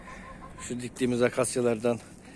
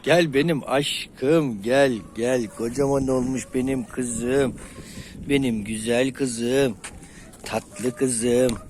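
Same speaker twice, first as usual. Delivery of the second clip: tender cooing; much slower than usual. Real, not acted. Owner petting her favourite hen, slow tender cooing. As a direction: coo over her lovingly, drawn out.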